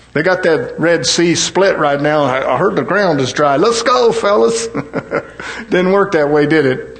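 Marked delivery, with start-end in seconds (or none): 0.1-4.7 joking Moses voice. Retold or imitated. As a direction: ham up Moses rallying the fellas. Moses reading a phone text, joking.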